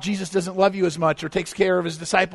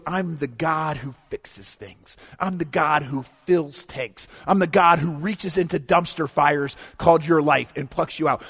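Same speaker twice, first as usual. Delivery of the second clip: voice of God; 3 dB louder than usual. Retold or imitated. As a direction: speak as God, calm then swelling with promise. Pastor voices God speaking.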